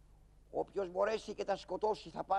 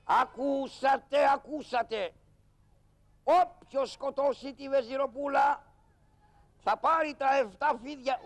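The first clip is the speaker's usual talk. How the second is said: drawn-out crier's call, slow and loud at the start; town crier call; 3 semitones higher, 3 dB louder, slower than usual. Acted. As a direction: cry it out to the whole square. Karagiozis plays the town crier. (κάλεσμα τελάλη, αργό και δυνατό)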